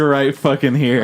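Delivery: real tears right at the brim; slow, choked-up emphasis; close to tears. Real, not acted. Podcaster showing co-host the tears are about to fall, close to tears. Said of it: "my tears are, like".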